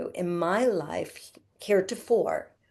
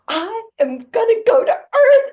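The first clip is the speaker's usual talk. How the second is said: much higher and louder, bursting with joy; thrilled announcement; 10 dB louder than usual. Acted. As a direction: proclaim it like the best news ever. Young spirit announcing to board.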